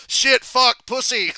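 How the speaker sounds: high, loud burst of swearing; gleeful cursing shout. Retold or imitated. Drew cussing on Netflix, a high, loud shout. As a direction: blurt every curse out at the top of your voice. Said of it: "And Drew goes".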